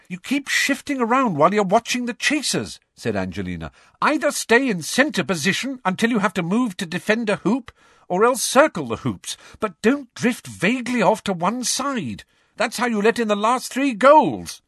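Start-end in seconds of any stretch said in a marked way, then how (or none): 0.1-2.8 stern captain. Acted. Captain scolding keeper. 4.0-14.6 stern captain. Acted. Captain scolding keeper.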